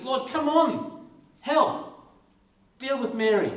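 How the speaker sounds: high, slow, whiny plea for help; exasperated plea. Retold or imitated. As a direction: drag it out like a fed-up sister. Martha pleading with Jesus.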